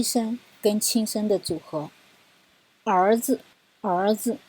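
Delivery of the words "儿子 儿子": 儿子 with rising 儿, light 子; 儿 rising, 子 barely touched; neutral tone demo. Shown as a demonstration. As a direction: say 儿子, 子 short and unstressed. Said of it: "就是二声跟轻声的组合".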